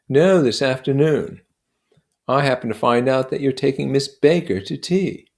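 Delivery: lightly voiced proud storyteller, rising; boasting of medals, building up; Gadsby telling his war tale. Gadsby boasting to Nick of his war medals, proud.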